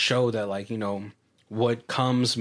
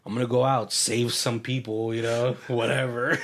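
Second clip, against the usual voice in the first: acting cool. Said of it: "trying to act cool about it".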